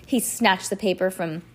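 ordinary delivery, nothing marked

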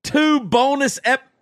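breaking off mid-word from hiccups. Real, not acted. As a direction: keep getting cut off by hiccups. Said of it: "this hiccups thing is killing me".

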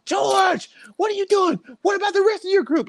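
high shouted drill-chief yell; chief screaming. Retold or imitated. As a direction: bark it like a furious chief. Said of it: "my chief screaming at me".

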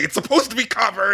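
high-pitched exasperated retort; mock angry. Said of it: "he's, like, all angry".

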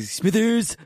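high squeaky cartoon voice; a quick Simpsons character bark; Smithers voice.

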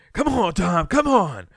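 high, pleading mock yell; exasperated fan shout. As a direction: urge the player on from a barstool. Acting out fan urging quarterback.

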